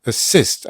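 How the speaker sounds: "Assist" with "sist" stressed; stress on second syllable. Shown as a demonstration. Teacher showing the accent on the second vowel, stressed syllable. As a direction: put the weight on the I in "Assist". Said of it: "ale drugą".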